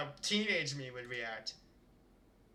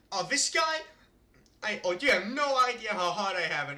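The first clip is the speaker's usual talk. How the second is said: mock complaint; 3 semitones higher, 4 dB louder than usual. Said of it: "It's like".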